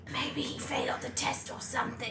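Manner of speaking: soft aside, whispered; whispering. Real, not acted. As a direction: whisper it so he won't hear. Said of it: "I can hear you".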